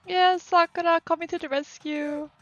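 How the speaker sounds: high, loud cheering; excited cheer. Acted. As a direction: cheer her entrance. Excited character cheers arrival.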